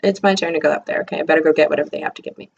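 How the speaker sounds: mock reluctant sigh. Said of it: "consternated and constipated and frustrated all at the same time".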